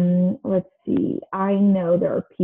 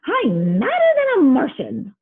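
angry; 6 semitones higher, slower than usual. Acted. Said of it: "Pluto turned purple with rage".

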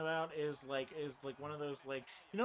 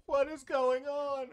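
high, drawn-out bewildered cry; mock confusion; 10 semitones higher, 8 dB louder, much slower than usual. Imagining being a cursed werewolf, hammed-up bewilderment. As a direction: sound baffled and slow. Joking about a cursed situation.

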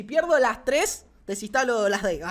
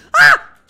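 startled scream; 16 dB louder than usual. Real, not acted. Trick fails in game.

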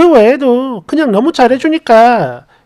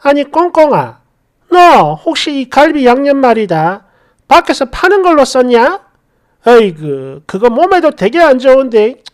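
가볍게 연기한 못마땅한 시어머니; 시어머니가 며느리를 은근히 추궁하듯. Acted. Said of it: "갑자기 저한테". (살짝 따져 묻는 시어머니 말투)

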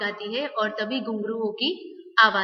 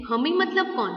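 eager demand; 3 semitones higher, 3 dB louder than usual. Acted. Girl urgently demands to know who is speaking. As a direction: press them to answer now.

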